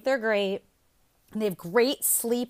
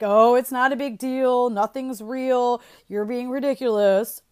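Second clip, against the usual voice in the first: lightly mocked brush-off, louder; dismissive parent; 6 dB louder than usual. Parent brushing off a scared kid, mildly dismissive. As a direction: imitate a parent waving a fear away.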